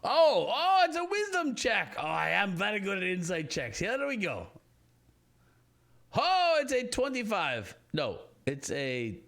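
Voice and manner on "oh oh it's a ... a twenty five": loud, high burst of delight; excited. Real, not acted. Player finds the check and rolls high, loud excitement. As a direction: crow over it, pitched way up.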